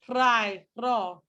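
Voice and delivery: "rye" and "raw" with a rolled r; Scottish trill. Shown as a demonstration. Teacher demonstrates Scottish trilled "rye" and "raw". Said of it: "a way of saying it in a Scottish accent".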